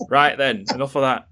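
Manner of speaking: mock brusque war-hero general, lightly done; Jason Isaacs impression. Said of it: "he talks like this".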